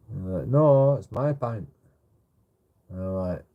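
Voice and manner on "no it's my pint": higher, louder and slow, leaning on No; hammed-up stubborn claim; mock indignant insistence. The pint thief loudly insisting the pint is his.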